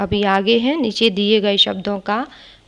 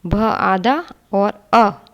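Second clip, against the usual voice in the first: slow spelling out; 3 dB louder, much slower than usual. Shown as a demonstration. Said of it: "धन का निशान".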